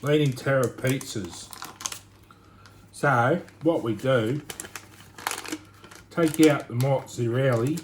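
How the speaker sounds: slow, put-on broad Aussie accent. Home cook giving pizza instructions in slow mock Aussie accent. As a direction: draw the words out in hammed-up Australian. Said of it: "my best Aussie accent".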